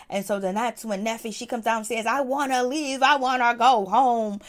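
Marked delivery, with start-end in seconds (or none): 2.1-4.4 imitated demanding whine. Neffy comes down wanting to go home, imitated demand. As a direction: imitate someone insisting on going, stretching the last words.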